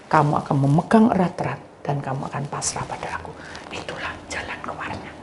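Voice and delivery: hushed unvoiced whisper; whispered message. Preacher whispering God's words to the congregation. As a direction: confide it softly.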